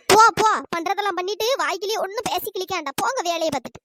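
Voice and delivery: irritated brush-off, loud at the start; angry dismissal. Acted. Woman dismisses friend who offered food, angry. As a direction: send her away crossly. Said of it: "இவ என்ன சரியான கோவத்துல அடக்கா".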